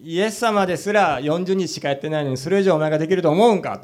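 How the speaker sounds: Satan's taunt in a light Osaka dialect. Retold or imitated. Satan taunting the fasting Brother Yun, light Osaka dialect. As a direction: tease him in mild Osaka speech, a touch mocking. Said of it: "そこだけなぜか大阪弁になります".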